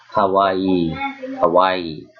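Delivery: kawaii with the final ii held long; two-beat ending. Shown as a demonstration. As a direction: draw out the end of kawaii. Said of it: "That's two syllables of sound".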